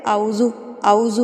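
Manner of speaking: اعوذ with the ain left out, said like auz; wrong recitation demo. Shown as a demonstration. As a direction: say اعوذ lightly with no ain, as students do. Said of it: "غلط کیسے پڑھتے ہیں اس کو؟". (غلط تلفظ: اعوذ بغیر عین کے)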